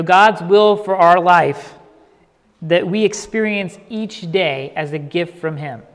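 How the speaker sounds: slowed right down, each phrase weighed; hushed and unhurried; slow and deliberate. Shown as a demonstration. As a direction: let it land slowly. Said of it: "Let me say that again".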